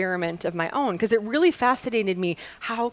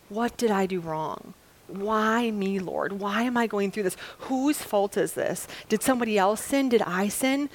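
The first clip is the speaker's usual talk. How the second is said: slow, understated plaintive questioning; mild lament. Acted. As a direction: gently act out someone asking God why. Voices a sufferer questioning God.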